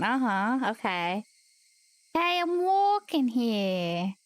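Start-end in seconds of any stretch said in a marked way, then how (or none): 2.1-4.1 slow New York cabbie line, walking stretched; New York accent. Acted. Streamer starting an accent challenge for chat, slow New York accent. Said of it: "A New York accent".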